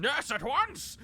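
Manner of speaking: loud high barked command; barking orders. Acted. Commander barking orders at his men, loud and sharp. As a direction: bark it out like an officer. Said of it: "he starts barking orders".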